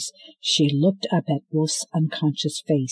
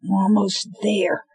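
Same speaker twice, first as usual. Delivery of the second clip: through gritted teeth; 5 semitones higher than usual. Acted. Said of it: "said Cinder through her teeth".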